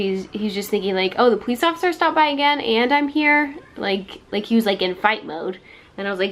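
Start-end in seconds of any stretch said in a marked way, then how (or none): 1.2-3.5 mock angry boyfriend. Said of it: "because he was so angry".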